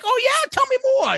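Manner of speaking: sharp high jump into fake eager interest; mock interest. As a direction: play up the fake fascination, high.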